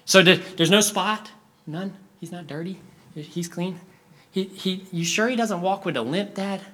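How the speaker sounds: lightly voiced boy seeking reassurance; anxious little boy. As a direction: check nervously with Dad. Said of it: "one boy who comes up to the father".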